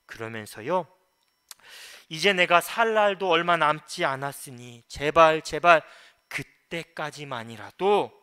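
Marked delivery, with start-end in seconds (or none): 2.1-8.1 loud pleading as Job; crying out in plea. Retold or imitated. Preacher voices Job begging God for respite, crying out. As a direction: plead forcefully, drawing out the final words. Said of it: "외칩니다".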